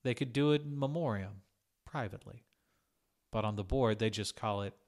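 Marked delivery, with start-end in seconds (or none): none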